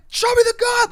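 loud, high, urgent yelled commands; shouting cops. Retold or imitated. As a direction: bellow orders as police at gunpoint. Retold police yelling orders.

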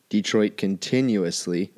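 continuously drawn out slowly, each syllable leaned on; stress on continuously. Real, not acted. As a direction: lean hard on continuously, slow it right down. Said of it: "and I stress continuously".

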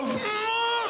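high, drawn-out whimper; mock holding back tears. Shown as a demonstration. Comedian showing the crowd how you go when about to cry, mock high whimper. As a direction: demonstrate choking back a cry. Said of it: "you know how you go".

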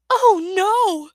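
high, loud gasp of alarm. Acted. Tsunami gasping at Clay's news, high and loud. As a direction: gasp it out, shocked. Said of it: "the Sea Wing Dragonette gasped".

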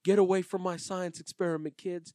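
imitating Billy. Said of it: "he's like".

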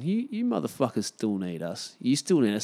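smug taunting as the government; mocking government voice. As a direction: imitate a gloating government taunting people. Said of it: "kinda going".

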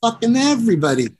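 mock despair at the passed-out drummer; exasperated disbelief.

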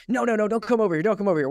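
retelling a mom's high, frantic yelp; panicked mom. Retold or imitated. Mom in her yard warding off a stranger, frantic mock yell. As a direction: squeal it like a startled mom waving someone off. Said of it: "she just sort of freaked out".

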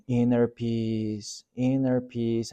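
slow, soft meditative chant; soft, slow mantra of inner peace; meditating master. Retold or imitated. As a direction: murmur it like a calm kung fu master lost in meditation. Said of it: "and he's meditating".

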